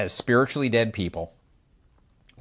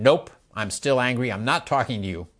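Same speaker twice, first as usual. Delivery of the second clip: mock angry refusal. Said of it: "But I'm still angry".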